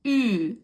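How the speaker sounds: ü held long and firm, lips pushed forward; front rounded ü. Shown as a demonstration. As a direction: say ü loud and drawn out, like a Turkish teacher. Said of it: "But also after u we have".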